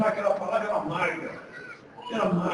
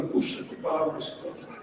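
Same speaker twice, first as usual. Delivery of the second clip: soft delight; 8 semitones lower, 10 dB quieter than usual. Retold or imitated.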